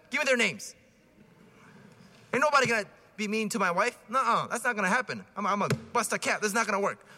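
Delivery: mock protective tough guy; lightly voiced macho husband. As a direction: puff up like a husband ready to fight. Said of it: "the response is".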